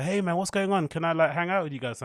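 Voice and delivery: lightly voiced hopeful little kid asking to join; a hint of a small boy, eager and hopeful; innocent kid. Lonely kid walking up to his friends, lightly innocent. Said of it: "super innocent".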